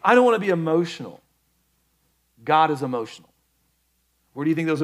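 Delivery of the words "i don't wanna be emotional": louder, quicker imitated objection; mock manly refusal. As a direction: mimic men brusquely refusing emotion. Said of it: "Men, let me just call you out".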